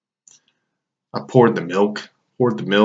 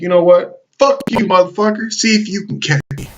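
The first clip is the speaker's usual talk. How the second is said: high, loud taunting shout; defiant yell; 10 semitones higher, 3 dB louder than usual. Retold or imitated. Teen yelling back at his dad, high defiant shout. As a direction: yell it back at him, daring him to chase.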